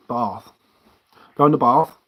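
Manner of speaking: Bath with a long broad a, in a light Sussex accent. Shown as a demonstration. Vlogger demoing how he says Bath in Sussex accent. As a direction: stretch the a in Bath like a Sussex local. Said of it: "we put R's".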